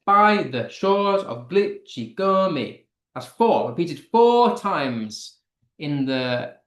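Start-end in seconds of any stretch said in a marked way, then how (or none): 0.1-2.9 slow, beat-by-beat reading of "By the shores of Glitchy Gummy"; counted-out meter. Shown as a demonstration. Teacher counting out the meter of a poem line, slow measured stresses. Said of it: "So let's count it".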